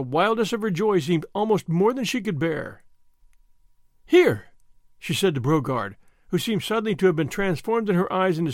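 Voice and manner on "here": high, loud burst of joy; the joy bursts out before she can stop it; joyful outburst. A narrator's reading. Marguerite hears her husband returns, loud joyful exclamation.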